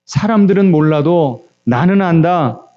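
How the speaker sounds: slow, measured reassurance; God's words, voiced slowly; retold divine comfort. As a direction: reassure slowly, pausing between phrases. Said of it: "하나님께서 이렇게 말씀하시더랍니다".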